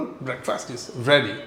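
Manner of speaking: slow, drawn-out breakfast is ready; slow classroom repetition; very slow teaching model. Shown as a demonstration. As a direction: spell it out slowly for learners. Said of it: "അപ്പോൾ നമ്മൾ പറയുന്നു".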